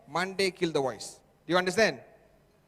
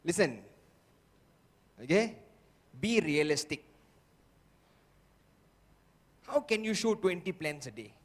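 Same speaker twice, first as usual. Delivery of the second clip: doubting inner voice; 3 semitones lower than usual. Acted. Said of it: "He will convince you and say".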